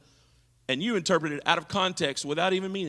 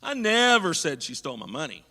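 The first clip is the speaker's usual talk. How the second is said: never leaned on firmly; stress on never. Shown as a demonstration. Preacher shows how stress changes meaning, punching never. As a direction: hit the word never. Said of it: "which word I put the voice inflection on".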